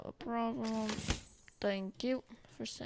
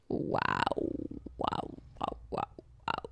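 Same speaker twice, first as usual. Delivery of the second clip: whisper. Real, not acted. Whispered awe.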